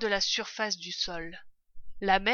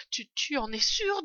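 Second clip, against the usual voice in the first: stammered, higher-pitched worried question; trembling question; 6 semitones higher, 3 dB louder than usual. A narrator's reading. Frightened wife questions her husband, trembling. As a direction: stumble on the first word, mildly frightened. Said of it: "toute tremblante".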